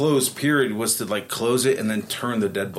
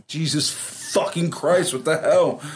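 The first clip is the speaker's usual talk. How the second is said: shocked; 6 semitones higher, slower than usual. Retold or imitated. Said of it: "And I was like".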